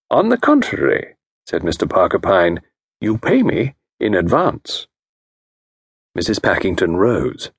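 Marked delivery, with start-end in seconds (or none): 0.1-4.9 diagnose her case with calm authority; a genteel consultant voice; Parker Pyne. Acted.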